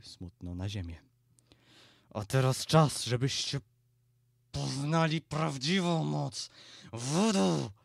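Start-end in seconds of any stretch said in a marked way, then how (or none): 2.1-7.7 loud, drawn-out proclamation; booming shout. A narrator's reading. Transformed Baron announces the true power of voodoo, booming shout. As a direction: shout it out grandly, stretching the final words. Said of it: "wrzasnął donośnie".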